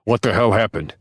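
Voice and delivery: shout. A narrator's reading. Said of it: "Boomer shouts".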